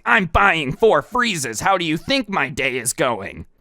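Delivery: imitated irritated customer, drawn-out start; slow, pointed retort, imitating her; mock snapping back. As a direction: snap back at the cashier, hammed up. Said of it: "she snaps back at him".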